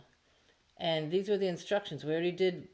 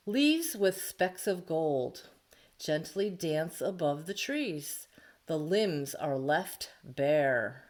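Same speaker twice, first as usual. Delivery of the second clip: slow, gentle haiku reading; poem reading; much slower than usual. Shown as a demonstration. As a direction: read it slowly, savouring each line. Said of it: "I titled it".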